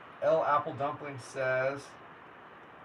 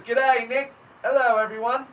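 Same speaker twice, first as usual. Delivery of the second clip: higher, louder attempt at an Australian accent that drifts British; reading a fan's greeting in a clumsy Australian accent; bad Australian accent; 6 semitones higher, 7 dB louder than usual. Streamer reading an Australian fan's hello in a clumsy Australian accent. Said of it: "trying to do my Australian accent".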